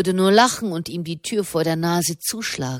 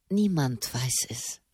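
whisper; 5 semitones lower, 9 dB quieter than usual. A narrator's reading. Secret visit, confessing quietly.

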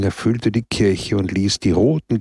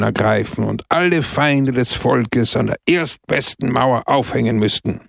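sharp speech; 3 semitones higher than usual. Acted. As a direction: hammer the crowd with harsh certainty. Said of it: "sprach er scharf".

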